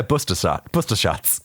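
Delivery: mock Boston "booster", final R dropped; Boston accent. Shown as a demonstration. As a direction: say it like a Bostonian: BOOS-tuh. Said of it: "booster shots in Boston are spelled".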